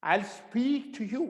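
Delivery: I'll speak to you, drawn out very slowly; teacher modelling slowly; slow demo. Shown as a demonstration. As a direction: stretch each word of I'll speak to you. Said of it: "ये एल है".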